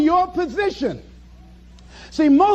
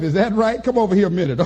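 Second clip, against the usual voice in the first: lower, mock-menacing beckon; life as a bully; 7 semitones lower, faster than usual. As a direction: call him over like trouble's coming. Life taunting the dreamer.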